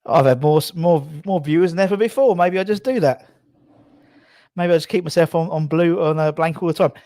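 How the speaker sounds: breathless after sprinting to the door; out of breath. Real, not acted. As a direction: talk while still puffing, short of air. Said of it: "whew, out of breath".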